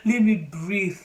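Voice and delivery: "Let me breathe" pushed out loud and urgent; desperate plea. Shown as a demonstration. Pregnant woman pulling her mask down, loud desperate "Let me breathe". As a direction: cry out "Let me breathe" like you're out of air. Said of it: "as in, let me just breathe".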